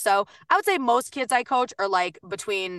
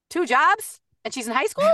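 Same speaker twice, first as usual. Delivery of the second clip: amazed; 6 semitones higher than usual. Real, not acted. Amazed at the girl's workload.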